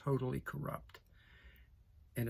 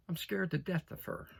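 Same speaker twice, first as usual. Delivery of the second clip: laughing admission; 4 semitones higher than usual. Real, not acted.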